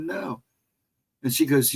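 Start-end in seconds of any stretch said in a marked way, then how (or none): 0.0-0.4 whispered no. Retold or imitated. Retold reply to the nurse.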